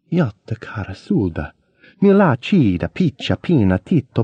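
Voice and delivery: performing a fake Italian poem to the girls. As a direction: recite gibberish Italian with big emotions. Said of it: "going to recite a little poem".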